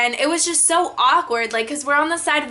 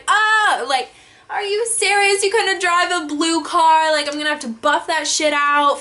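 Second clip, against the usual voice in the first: retold disbelief; 4 semitones higher than usual. Staring at the other driver's car, higher exasperated disbelief. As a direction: replay the shock of seeing the damage.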